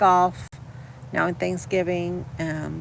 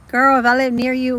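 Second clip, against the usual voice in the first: excited; 7 semitones higher, 7 dB louder than usual. Real, not acted. Gushing to a viewer.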